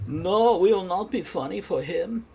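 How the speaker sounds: playfully hammed-up high voice; mock refusal. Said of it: "we're just like".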